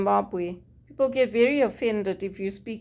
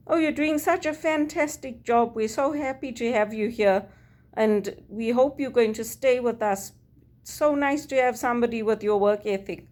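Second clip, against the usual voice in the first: retold gushing praise; 3 semitones higher than usual. Bank staff praising a new worker, retold gushing. Retelling bank's praise before firing.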